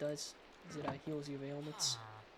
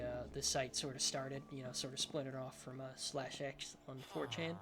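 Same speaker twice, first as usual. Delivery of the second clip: lisping s sounds; slight lisp on the s. Real, not acted. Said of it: "Excuse my, uh, my lisp".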